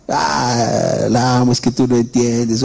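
imitating a sobbing lovesick boy; mock lovesick crying. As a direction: whine it like a heartbroken teenager. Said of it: "y llorar y llorar". (imitando a un joven que llora por amor)

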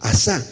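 "asá" with the accent on the final á; stress on last syllable. Shown as a demonstration. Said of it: "con acento en la última". ("asá" con acento en la última sílaba)

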